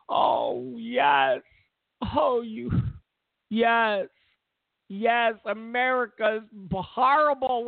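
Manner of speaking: sarcastic mock self-hatred; self-loathing. Sarcastic parody of guilty whites.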